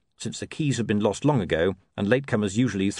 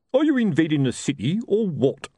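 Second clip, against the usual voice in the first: higher, louder sergeant calling down; Colon's challenge; 7 semitones higher, 3 dB louder than usual. Acted. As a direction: demand an answer from the river.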